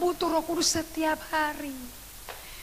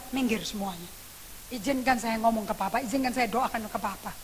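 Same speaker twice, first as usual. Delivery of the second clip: hushed plea; 4 semitones lower, 7 dB quieter than usual. Retold or imitated. Son asking the mourners to let him pray, hushed. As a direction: lower and softer, gently asking for room.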